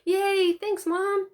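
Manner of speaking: a daughter cheering after her mom's praise; overly elated. A narrator's reading. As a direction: cheer as if you just won a prize. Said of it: "hopping in her chair".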